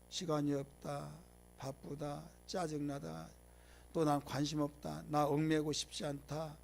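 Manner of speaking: quiet, slow imitation of reluctant churchgoers; grumbled excuses. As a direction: drop the voice and list excuses listlessly. Voices excuses for avoiding worship.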